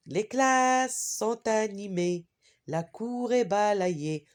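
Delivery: rhythmic classroom poem reading; poem recitation. Shown as a demonstration. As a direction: give each verse a steady beat. Rereads the poem one last time.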